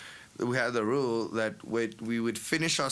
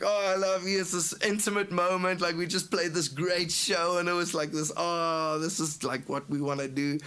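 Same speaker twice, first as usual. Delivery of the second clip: higher, gushing sappy reply; mock sentimental; 5 semitones higher than usual. Singer gushing back at crying bandmate in the car. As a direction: lay on the drunk sentiment.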